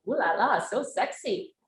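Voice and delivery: playful, swooning admirer; lightly hammed-up ooh-la-la delight; mock swooning. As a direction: imitate someone charmed by a sexy accent. Mimics Americans swooning over French accents.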